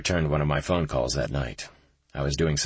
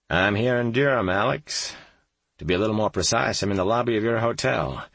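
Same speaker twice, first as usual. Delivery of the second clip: lightly voiced, higher friendly agent; easygoing friend calling with a surprise; friendly FBI agent; 6 semitones higher than usual. Kyle's voice on the phone.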